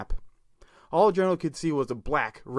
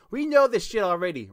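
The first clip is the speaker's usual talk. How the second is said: scream; 8 semitones higher, 4 dB louder than usual. Acted. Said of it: "Raphael screamed".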